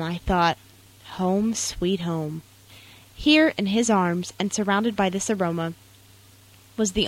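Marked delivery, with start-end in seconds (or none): 1.1-2.4 contented. Retold or imitated. Comforted in father's arms.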